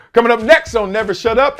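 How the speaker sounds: show teaser. Real, not acted. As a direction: punch it out like a show promo. Host's teaser for next segment.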